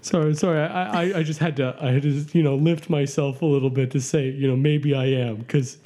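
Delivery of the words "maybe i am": dramatic. Shown as a demonstration. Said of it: "I was being dramatic".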